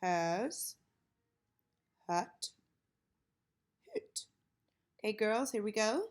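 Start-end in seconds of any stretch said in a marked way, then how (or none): 0.0-4.3 put-on boy voice. Shown as a demonstration. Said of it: "I'm gonna do my, my boy voice".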